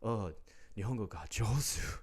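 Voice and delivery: gushing fake praise in Japanese; patronizing praise. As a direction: mimic a patronizing old Japanese man. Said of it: "this patronizing".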